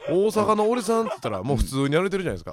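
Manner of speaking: mock Kansai manzai opener; playful fake Kansai patter; Kansai dialect. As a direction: open a manzai act in put-on Kansai. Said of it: "関西弁で、".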